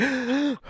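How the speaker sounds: sharp high gasp for air. Shown as a demonstration. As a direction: suck in a big breath. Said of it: "Oh, I shouldn't have did that".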